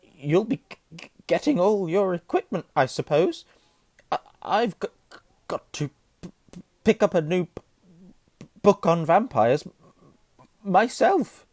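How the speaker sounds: high-pitched, loud, juddering stutter; nervous Quirrell. A narrator's reading. Terrified professor chats to Harry, stammering. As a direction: stick on consonants, then push through. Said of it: "He laughed nervously".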